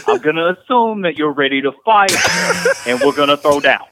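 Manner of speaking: lightly played Jersey tough guy, mock threatening; deadpan mock threat like a Jersey bruiser; a hint of a New Jersey tough guy. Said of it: "teaching you the mindset of every New Jersey person".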